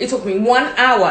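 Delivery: stress on one hour.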